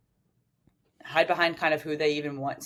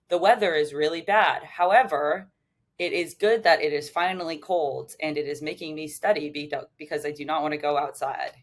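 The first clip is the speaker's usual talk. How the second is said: stiff, mechanical, word by word; robot voice. Retold or imitated. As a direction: recite it like a robot. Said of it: "You sound like a robot when you're saying it like that".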